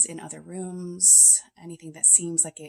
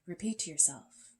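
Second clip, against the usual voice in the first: guided meditation. Real, not acted. Leads the meditation in second take.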